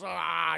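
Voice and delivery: short burst of villain's howling; imitated crying wail. Zod crying after his defeat, mock wail. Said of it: "He's crying and shit".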